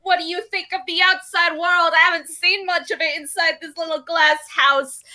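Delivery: lightly voiced cocky little automaton; little dude persona. Chattering away at these people, brash little persona. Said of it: "trying to keep up this persona".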